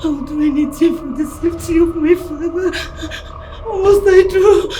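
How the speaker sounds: loud sobbing plea; crying plea. Acted. Daughter pleads with the kidnapper for her father's safety, crying loudly. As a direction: cry out and beg for his life.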